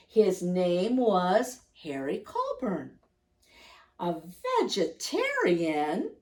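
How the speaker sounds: gentle read-aloud voice for little listeners; cosy picture-book narration; storybook reading. Acted. Reads picture book aloud to children.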